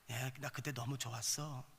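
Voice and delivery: soft, low, slow fond voice; tender recollection. Acted. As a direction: speak as God fondly remembering, very quietly. Voices God fondly remembering.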